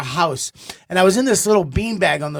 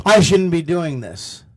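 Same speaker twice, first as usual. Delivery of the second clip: mock strained; slower than usual. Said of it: "My throat is closed".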